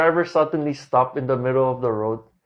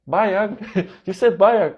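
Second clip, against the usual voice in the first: higher, louder, puzzled repeating; loud, bewildered foreigner asking again and again; loud confused questions; 6 semitones higher, slower than usual. Retold or imitated. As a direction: keep asking loudly, baffled. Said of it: "malakas yung boses ko rin".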